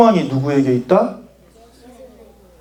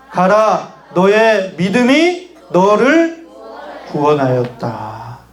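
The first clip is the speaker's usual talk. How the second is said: reading together; slower than usual. Shown as a demonstration. Preacher leads the group reading Jesus's words, slow recitation. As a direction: lead the reading slowly, phrase by phrase. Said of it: "같이 한번 읽어보겠습니다".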